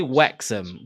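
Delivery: "Wrexham" with a W for the R; slipped R. Retold or imitated. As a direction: say "Wrexham" as "Wexham". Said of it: "Why'd I say Wrexham?".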